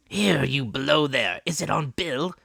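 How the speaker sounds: high, loud call down below; crying out. Acted. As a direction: shout to the man inside. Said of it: "cried the blind man again".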